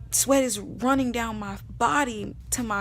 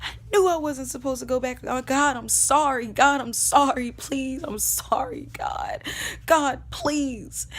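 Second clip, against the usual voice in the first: remorseful plea, building louder; retold anguished prayer, swelling on the apologies; praying out loud; 2 semitones higher, 3 dB louder than usual. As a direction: cry out an apology to God. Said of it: "I said out loud".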